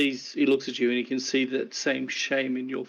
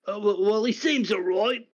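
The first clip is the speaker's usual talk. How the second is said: lightly voiced guard, higher; dismissive guard; 7 semitones higher, 4 dB louder than usual. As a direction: shrug it off. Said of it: "looks at Carrick and goes".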